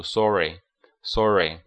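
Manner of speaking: "sorry" with a rounded British aw vowel; British pronunciation. Shown as a demonstration. English teacher showing students the British reading of sorry, British accent. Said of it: "英式的话读".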